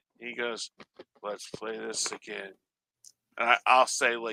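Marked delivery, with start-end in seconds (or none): 1.2-2.5 very soft, flat deadpan monotone drone. Retelling what a man playing records in his mom's basement said, imitating a monotone voice. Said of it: "in this monotone voice".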